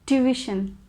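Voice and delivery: "Tuition" in three syllables, too-ih-shun; correct pronunciation. Shown as a demonstration. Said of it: "the correct pronunciation of this word is tuition".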